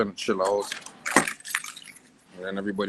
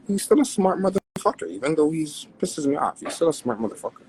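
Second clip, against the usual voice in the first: excited praise; 8 semitones higher, 5 dB louder than usual. Real, not acted. Praising his rival, excited.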